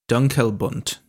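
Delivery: Dunkelbund said carefully as a best guess; guessed German name. Shown as a demonstration. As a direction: say Dunkelbund slowly, like German read off the page. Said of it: "That's my best pronunciation".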